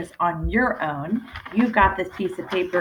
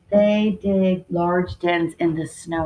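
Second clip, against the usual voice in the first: plain reread; slower than usual. Shown as a demonstration. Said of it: "That's not very exciting".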